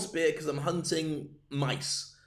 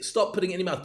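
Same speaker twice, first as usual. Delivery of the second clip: louder scolding call to the team; raised voice warning the hunting team; mock warning; 3 semitones higher, 4 dB louder, faster than usual. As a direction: tell them off like naughty kids. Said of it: "and we have to say".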